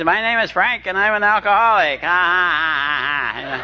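high, boisterous mock greeting with laugh; loud, hammy self-introduction with a laugh; loud yelling. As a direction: belt it out like a brash newcomer. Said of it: "yelling at the top of his voice".

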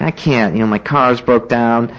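mildly whiny retold protest. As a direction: whine out a feeble excuse. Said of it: "just whiny".

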